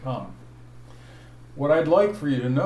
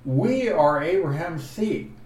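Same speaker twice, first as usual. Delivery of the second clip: "We are Abraham's seed" louder and higher; emphasis on the quote; 5 semitones higher, 5 dB louder than usual. Shown as a demonstration. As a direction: punch out "We are Abraham's seed" as the main point. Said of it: "what receives emphasis is what they said".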